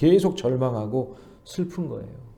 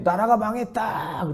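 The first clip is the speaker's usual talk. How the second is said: higher, slow mock chant of a marcher; lightly voiced protester lamenting; protesters' cry; 7 semitones higher, slower than usual. Marchers with flags crying the nation is lost, lightly mocked. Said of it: "그래요".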